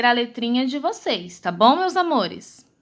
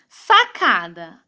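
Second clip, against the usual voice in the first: slow, low syllable-by-syllable reading; sílabas separadas; 6 semitones lower, slower than usual. Shown as a demonstration. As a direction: sound out SACADA as SA-CA-DA, slowly. Teacher sounds out word by syllables. (leitura silabada e lenta)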